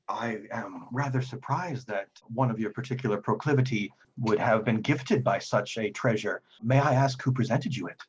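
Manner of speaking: lightly voiced formal priest; measured, courtly speech with mild astonishment; surprised devout priest.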